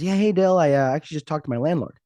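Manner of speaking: dad's voice. Retold or imitated. Dad voiced in retold call.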